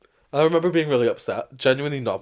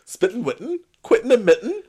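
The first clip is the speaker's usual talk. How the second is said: singsong rhyme; 10 semitones higher, 5 dB louder than usual. Real, not acted. Playful rhyme on spitting.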